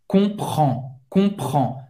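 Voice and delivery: "Comprend" said deliberately, R scraped in the throat. Shown as a demonstration. Teacher repeating for learners, "Comprend" with a scraped R. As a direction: model "Comprend" with a French throaty R. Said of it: "arranhar essa garganta para fazer esse R".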